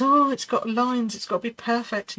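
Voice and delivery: mildly acted fretting, voice lifted; mock panic. Teacher mimics beginners panicking about imperfect skies, mock worried. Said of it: "Everyone panics and thinks".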